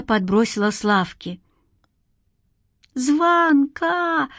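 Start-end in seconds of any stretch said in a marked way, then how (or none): 2.9-4.3 put-on high boyish cry of the name, pitched well up; boy's cry. A narrator's reading. Boy to his friend in the dark, a high cry. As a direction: cry out for her as she vanishes. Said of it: "закричал мальчик".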